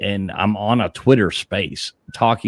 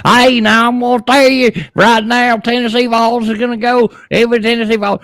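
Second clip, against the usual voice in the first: much higher and louder hollering fan voice; mock yelling fan; 13 semitones higher, 6 dB louder than usual. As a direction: holler it out a truck window like a rowdy fan.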